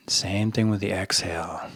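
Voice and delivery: softened, unhurried meditation cues; guided meditation. Shown as a demonstration. Coach keeping listeners' eyes relaxed on the rim, soft meditation voice. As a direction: ease quietly through the words with pauses. Leads a breathing practice.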